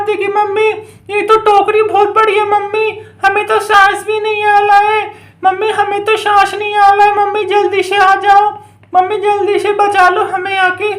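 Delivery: lightly voiced little child pleading; trapped child. Children trapped in basket call to mummy, mildly pleading.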